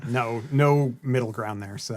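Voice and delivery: slow words through a yawn; mid-yawn, drawn out. Real, not acted. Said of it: "Well, you're yawning".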